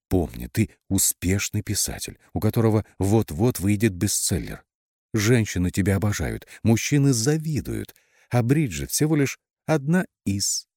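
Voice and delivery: lightly voiced meditation-tape coach; meditation announcer. A narrator's reading. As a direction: intone it like a self-help recording. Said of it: "продолжая вещать голосом диктора с медитативной записи". (как диктор медитативной записи)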